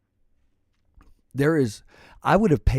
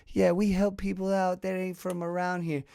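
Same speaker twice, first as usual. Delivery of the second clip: lightly voiced street hustler, higher and fast; voicing a friendly stranger; 6 semitones higher, 6 dB quieter than usual. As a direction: play the smooth guy eyeing your bike, a bit higher. Stranger again.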